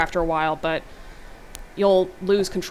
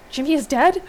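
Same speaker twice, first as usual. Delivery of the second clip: shocked; 8 semitones higher, 6 dB louder than usual. A narrator's reading. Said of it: "Riley's voice comes across".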